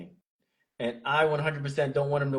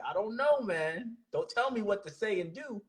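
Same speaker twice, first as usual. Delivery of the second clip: put-on higher, softer, shrugging young guy brushing it off; mock young voter; 6 semitones higher, 5 dB quieter than usual. Young voter shrugging off the TikTok ban, high and soft. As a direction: toss it off like a defiant kid who won't be told.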